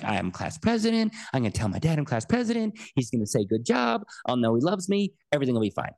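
put-on bubbling with a child's giddy anticipation; excited kid. Child rehearsing good news for dad, excited. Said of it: "I'm all excited".

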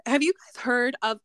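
cracking voice, real glitch. Real, not acted. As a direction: voice breaks mid-question. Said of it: "I don't know what happened to my voice".

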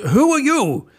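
high, loud startled king; a king scrambling up to question; demanding king. Acted. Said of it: "demanded the king".

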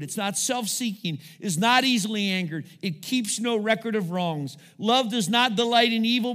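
measured, emphatic scripture reading. Acted. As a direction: read it out line by line from the pulpit. Reads First Corinthians thirteen.

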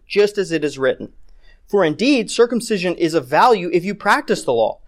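emphatic public Bible reading; scripture reading. Acted. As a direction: read out the verse as a pointed challenge. Reads scripture aloud.

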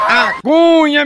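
high, slow, laughing call of A Cunha; sung-out catchphrase; drawn-out catchphrase call. Real, not acted. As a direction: stretch the name out high with a laugh. Catchphrase called out.

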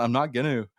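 "gonna" said as "ginnoo"; Vancouver Island pronunciation. Shown as a demonstration. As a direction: say "gonna" with a final oo. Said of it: "like, Vancouver Island".

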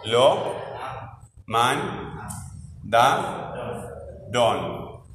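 "Lo, man, da, don" split into separate beats with a pause after each; syllable by syllable. Shown as a demonstration. Teacher splits the phrase into syllables for a student, pausing between each. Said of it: "¿Cómo separas en sílabas acá?".

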